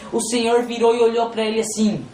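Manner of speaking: normal talking voice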